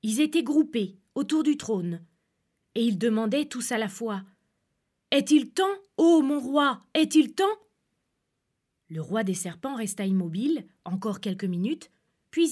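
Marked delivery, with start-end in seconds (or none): 5.1-7.6 eager question. Acted. Serpents eagerly ask their king.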